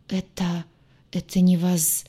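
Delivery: halting start, cut short mid-word; breaking off. A narrator's reading. Healer sees something on his chief's neck, breaks off. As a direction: stammer a start and stop dead. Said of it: "Целитель осёкся".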